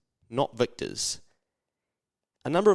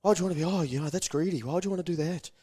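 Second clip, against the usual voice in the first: judgy critic; 5 semitones higher, much faster than usual. Retold or imitated. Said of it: "Someone will have a crack at you".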